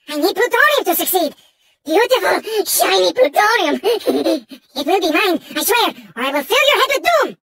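unhinged, melodramatic game villain; theatrical villain. Acted. Mad villain Engine pleading with Crash for plutonium, melodramatic. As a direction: play a volatile mad villain, swinging between scheming and wailing.

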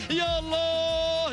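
excited shout. Real, not acted. Live race finish commentary.

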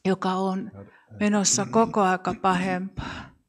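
steady, measured praying voice addressing the Lord; earnest congregational prayer. Acted. Leader prays before the congregation, earnest prayer voice. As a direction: pray aloud for the room, unhurried and sincere.

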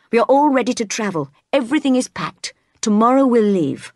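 keyed-up, hurried announcement; urgent eagerness. Acted. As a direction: eagerly rattle off the travel plans. Rochester urgently plans their departure.

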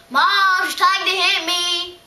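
loud, high yell for Mom; tattling yell. Acted. Little sister calling Mom on her sister, yelling. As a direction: yell it out to get her in trouble. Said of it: "but I yell".

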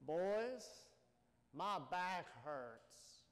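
put-on a light touch of an old boss, slow and drawn out; Mister Richard's line. Old boss teasing his young workers, lightly voiced and slow. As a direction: slowly set up the joke as the old boss.

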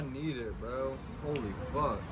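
strained words with mouth burning; mouth on fire. Real, not acted. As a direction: talk through a burning mouth. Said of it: "My lips are on fire".

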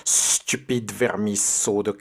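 harsh witch insults, slowing at the end. Acted. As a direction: spit out insults like an angry witch. The witch appears from the toilet.

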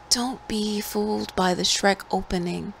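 ordinary delivery

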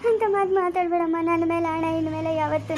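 tearful pleading; crying plea. Acted. Mother begging daughter not to talk so, crying. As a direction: beg her through tears.

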